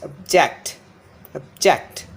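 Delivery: obJECT, weak first syllable, strong second; stress on second syllable. Shown as a demonstration. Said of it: "the second syllable is stressed".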